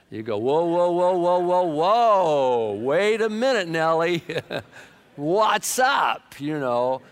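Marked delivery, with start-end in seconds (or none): 0.4-6.4 loud, high, alarmed whoa-whoa at his wife; startled husband yelling. Acted. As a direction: stop her at the door, shouting in shock. Husband stops wife leaving dressed up.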